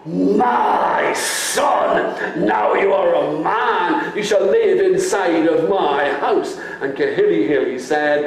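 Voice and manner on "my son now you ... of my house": father welcoming his son home; joyful father. Acted. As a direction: welcome him with a cry.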